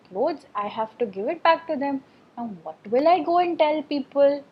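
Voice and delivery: mildly acted scolding, storyteller style; a touch of exasperated anger; angry husband. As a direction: complain crossly as an upset washerman. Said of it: "he was getting so angry".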